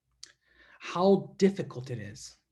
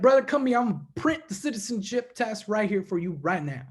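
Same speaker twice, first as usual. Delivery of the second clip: put-on Spencer's Virginia accent; 2 semitones higher than usual. Friend from Virginia offering to print the citizenship test, Virginia accent. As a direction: do a country buddy's Virginia twang. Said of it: "he talks like this".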